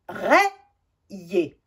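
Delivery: RAYÉ said rè-yé, syllables apart; RAYÉ sounded out as rè, then yé. Shown as a demonstration. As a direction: say RAYÉ with è before yé. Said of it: "je vais le prononcer".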